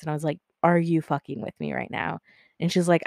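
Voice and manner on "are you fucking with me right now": deliberate, serious retold question; measured challenge with weight on "Are"; dead-serious challenge. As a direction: confront a friend, retold in earnest. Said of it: "I looked her dead in her eyes".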